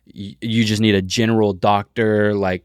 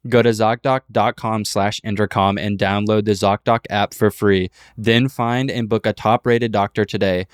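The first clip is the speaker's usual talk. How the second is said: ad read. Acted. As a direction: clear sponsor call to action. Ad read call to action.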